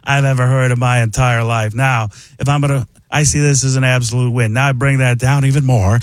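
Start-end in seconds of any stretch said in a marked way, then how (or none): 0.0-1.7 airy aw-shucks voice; breathy, humble-genius voice; Mark Ruffalo. Acted. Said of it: "it's Mark Ruffalo". 3.1-4.5 lightly voiced weary man; Paul Giamatti. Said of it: "it becomes Paul Giamatti".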